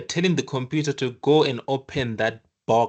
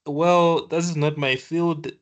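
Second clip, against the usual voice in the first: lightly voiced doctor protesting, pitched up; baffled doctor; 4 semitones higher than usual. Heart surgeon asked to operate on legs, mildly indignant protest. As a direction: push back as a specialist out of their depth. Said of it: "it's like you're telling the doctor".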